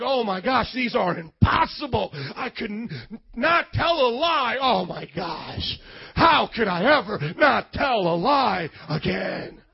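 hammed-up dismay, lightly acted; exaggerated disbelief, stretching the words; mock despair. Mimics reader overwhelmed by commands.

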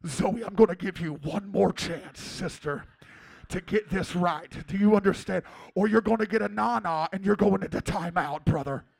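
lightly voiced intense dad scolding a toddler; playful imitation of an over-intense father; Pastor Joe. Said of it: "and he'll be like".

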